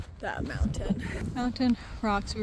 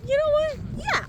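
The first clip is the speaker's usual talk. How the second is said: dramatic yes. Retold or imitated. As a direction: build it up then say yes. Mock dramatic agreement.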